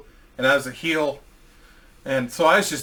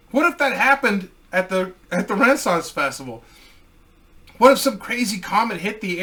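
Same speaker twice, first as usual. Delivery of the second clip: higher, mock-solemn letter reading; reading his letter aloud; 4 semitones higher than usual. Reading his silly love letter to Dre, mock-solemn. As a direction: recite the love letter like a formal proposal. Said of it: "Uh, I said".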